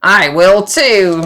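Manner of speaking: loud, slow honked "I will too"; loud goose honk. A narrator's reading. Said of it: "loudly honked the hungry goose".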